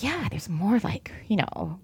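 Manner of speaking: hushed whisper, sharing a secret; confiding whisper. Retold or imitated. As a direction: drop to a whisper as if gossiping. Friend quoted in confiding aside.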